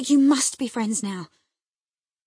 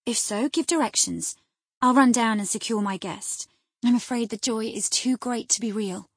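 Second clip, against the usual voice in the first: droll, raised-voice teasing; half-angry, half-amused; 5 semitones higher, 8 dB louder than usual. A narrator's reading. Wife mocks husband's fastidiousness, half angry, half amused. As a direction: needle him with mock deference, pitched up and louder. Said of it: "half angry, half laughing at his fastidiousness".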